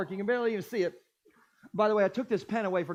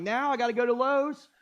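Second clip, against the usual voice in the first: retold rant; 4 semitones higher than usual. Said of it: "And I'm losing it".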